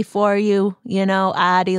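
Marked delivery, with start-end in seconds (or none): 1.4-1.8 "addy" for arty, Boston style; Boston-accented "addy". Acted. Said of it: "my people in the homeland of Boston say".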